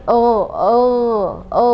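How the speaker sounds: gho between O and A; correct gho. Shown as a demonstration. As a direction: voice the gho from the upper throat. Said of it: "enaknya gitu".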